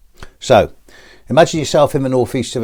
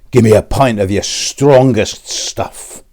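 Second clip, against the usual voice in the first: slow, drawn-out menacing hard man; big menacing tough; 4 dB louder, slower than usual. Acted. Big black tarmac ordering at the bar, slow and menacing. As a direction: order like the biggest thug in the pub. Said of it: "really big and menacing".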